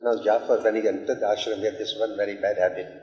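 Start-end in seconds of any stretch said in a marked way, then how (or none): none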